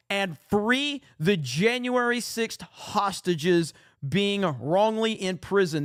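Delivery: hammed-up campaign promise read out slowly; reading Trump's post. Host reading the president's post to viewers, mock rally voice.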